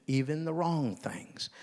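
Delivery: whispered aside. Retold or imitated. Father reassuring his boys.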